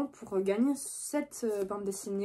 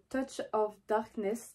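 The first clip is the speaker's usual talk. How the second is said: slow, self-conscious English accent on Touch of Darkness; bad English accent; slower than usual. Real, not acted. Booktuber reading an English book title aloud, in a clumsy English accent. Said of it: "désolée pour mon accent anglais tout pourri".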